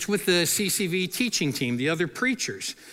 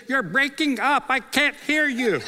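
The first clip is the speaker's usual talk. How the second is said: higher-pitched mock phone excuse; faked bad connection; 8 semitones higher than usual. Preacher dodging a skydiving dare, feigning a bad connection. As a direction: lightly act out a failing phone line.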